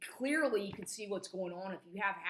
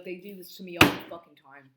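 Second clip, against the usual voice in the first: angry outburst; 11 dB louder than usual. Real, not acted. Angry rant about persecution.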